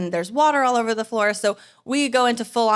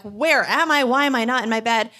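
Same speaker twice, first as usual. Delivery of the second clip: panicked questions; 2 semitones higher than usual. Retold or imitated. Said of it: "feeling fear and panic".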